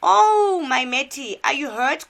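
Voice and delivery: high, loud, fussing wail; Matt's mother. Acted. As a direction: cry out in motherly alarm. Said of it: "Here comes Matt's mother".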